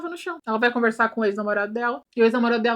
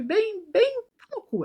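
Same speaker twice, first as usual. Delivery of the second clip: sarcastic jab; 10 semitones higher, much slower than usual. Real, not acted.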